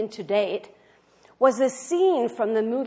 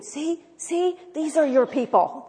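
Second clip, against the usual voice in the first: higher, louder coaxing voice; eager teaching; 7 semitones higher, 6 dB louder than usual. Retold or imitated. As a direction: coax the bird with rising excitement. Friend teaching eaglet, quoted.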